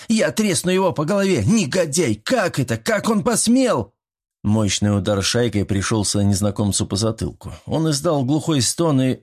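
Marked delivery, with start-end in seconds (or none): 0.1-3.9 high, enraged shouting; furious shriek. A narrator's reading. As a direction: shriek at the intruder in rage. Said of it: "кричала она". (Мила в ярости визжит на незнакомца)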